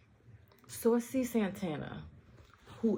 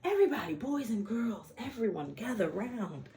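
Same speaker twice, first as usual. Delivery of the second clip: calling out; 3 semitones higher than usual. Real, not acted. Calling crowd to gather round.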